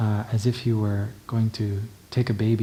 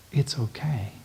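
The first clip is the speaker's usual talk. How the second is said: soothing whisper; 2 semitones higher, 4 dB quieter than usual. Shown as a demonstration. Comforting child in arms.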